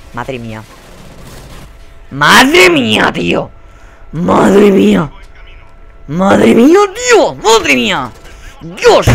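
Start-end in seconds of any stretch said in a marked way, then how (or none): 2.1-9.1 loud, high, drawn-out screams; real raging exasperation; angry outburst. Real, not acted. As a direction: lose your temper, wailing each exclamation. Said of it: "Voy a parar de, de enfadarme".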